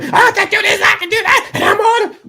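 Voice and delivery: very high, loud mock bragging shout; mocking loud yellers. Mocking people who yell how capable they are. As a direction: ham up a blustering braggart. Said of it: "All those people yelling".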